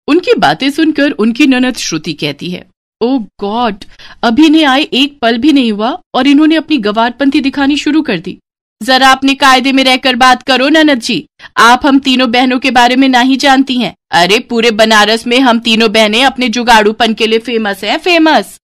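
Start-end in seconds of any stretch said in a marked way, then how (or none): 3.0-8.4 high, snooty scoff; sneering sister-in-law. Acted. Sister-in-law mocks the new brides, snooty and high. 8.8-18.6 high, louder boastful retort; cheeky village bride. Acted. Bride boasts to her sister-in-law, loud and cheeky.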